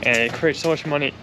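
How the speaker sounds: talking through hiccups; hiccuping between words. Real, not acted. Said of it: "I keep hiccuping".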